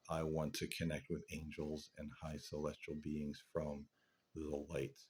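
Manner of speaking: ordinary talk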